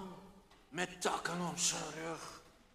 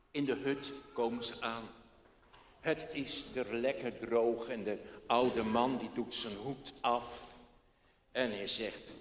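ordinary delivery

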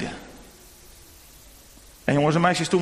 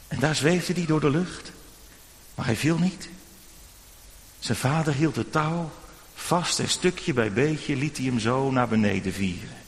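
usual speaking voice

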